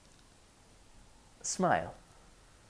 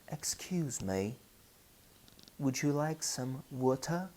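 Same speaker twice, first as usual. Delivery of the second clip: British English accent, softer voice; 5 dB quieter than usual. Shown as a demonstration. Teacher shows travellers how England offers water, British accent. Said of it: "If you travel to England".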